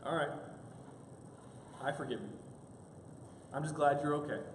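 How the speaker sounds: low, soft, relenting; measured, gentle acted forgiveness; forgiving. Wife forgiving her apologetic husband, softly relenting.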